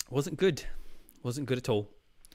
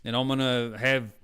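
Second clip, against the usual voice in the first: put-on character quote in a makeshift Australian accent; mock Australian accent; 4 dB louder than usual. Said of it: "I don't know why, he's Australian".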